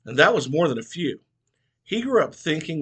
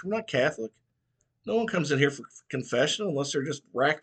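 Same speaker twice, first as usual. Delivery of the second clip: preacher voice; 5 semitones higher than usual. Acted. Preacher chides Mitchell.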